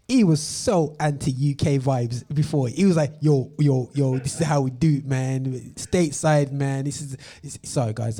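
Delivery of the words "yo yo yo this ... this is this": badly faked American accent, teasing; lightly mock a Stateside rapper's American accent; the rapper's American accent. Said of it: "that's the most terrible rapper accent out there".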